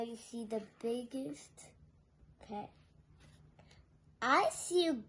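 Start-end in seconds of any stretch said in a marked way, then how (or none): none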